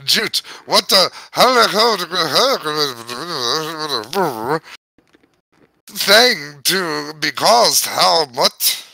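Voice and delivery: put-on Irish accent. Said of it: "now I'm fucking doing the Irish sh".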